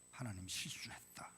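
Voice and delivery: 혼잣말처럼 속삭이듯; 남몰래 투덜대는 속삭임; whisper. Retold or imitated. Imagined thought of a listener. (속삭이는 혼잣말)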